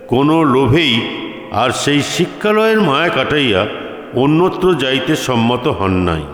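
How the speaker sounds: ordinary delivery, nothing marked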